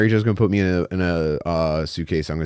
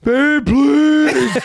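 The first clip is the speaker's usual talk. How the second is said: much higher, begging with a laugh; claustrophobic panic; 3 dB louder than usual. Retold or imitated. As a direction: plead from inside a suitcase. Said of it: "him just going".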